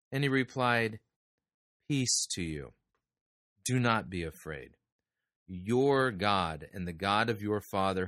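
measured, formal reading of the Bible passage; solemn Bible reading; scripture reading. Acted. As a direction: read the verses aloud to the congregation with care. Reading Genesis aloud in sermon.

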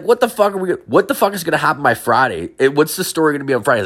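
high, rushing dismay; acted bewildered protest; exasperated disbelief. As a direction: fret aloud, high and increasingly quick. Acted dismay at rumour growing.

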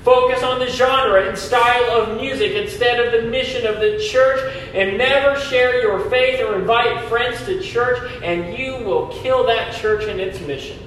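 mock advice, dripping irony; sarcastic. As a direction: list them like tongue-in-cheek tips. Sarcastic list of church-killing habits.

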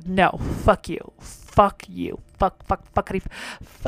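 slow, sing-song cursing that fades out; playful cursing. Real, not acted. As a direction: toy with the swear word. Cursing the customer, trailing off.

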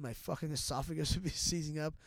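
real chuckle breaking into the words; laughing. Real, not acted. Athlete recounting a grim illness to host, laughing. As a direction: laugh lightly while telling it. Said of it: "And I'm laughing".

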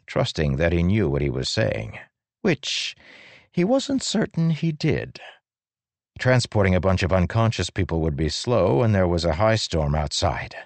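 ordinary delivery, nothing marked

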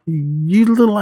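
high-pitched exasperation, volume held back; mock angry yell. Fed-up teacher tells off his class, mock yelling. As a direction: imitate a teacher blowing up. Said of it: "he was just yelling at all of them".

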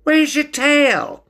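very high, loud, slow question; high-pitched tactless curiosity; blunt stoat. A narrator's reading. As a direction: blurt it in a squeaky voice.

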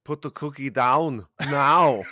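high, loud, slow action-star impression; hammed-up shouted movie command; Arnold. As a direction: bellow the order as a movie impersonation. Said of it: "a scene in any Arnold movie".

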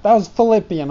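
mock accusation; blaming the pet. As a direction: pin it on the creature. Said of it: "the weirdest laugh I've ever laughed".

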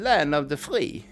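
mock Texan English; Texan accent. Texan praising land of the free, mock Texan accent. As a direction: put on a Texas accent. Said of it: "uh, Texas".

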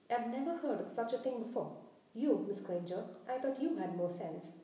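stern, emphatic telling-off; stern scolding. Acted. Professor dressing down students out of bed, stern scolding. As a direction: scold them with firm stresses.

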